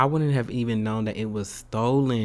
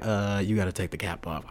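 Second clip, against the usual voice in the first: imitated DMV official; 6 semitones lower, 5 dB quieter than usual. Voices the man at the DMV.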